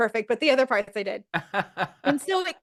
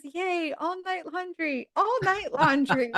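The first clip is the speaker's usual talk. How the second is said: slow, higher sing-song mock cheer; hammed-up Chandler; 4 semitones higher, slower than usual. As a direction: drag it out like a goofy chant.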